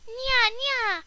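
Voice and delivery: taunting. Pretend. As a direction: tease like a bratty kid. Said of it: "I was like".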